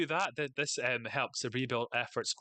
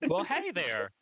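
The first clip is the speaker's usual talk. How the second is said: mock southern drawl; 5 semitones higher, 4 dB louder, slower than usual. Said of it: "I think I'll go".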